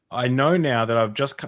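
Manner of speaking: imitated British accent, lightly put on. Audience member asking to disagree, British accent. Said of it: "in his British accent".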